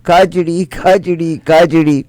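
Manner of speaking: angry farmer mocking the chant. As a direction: scold the fool, then mock him back. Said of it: "उसको बड़ा गुस्सा आया".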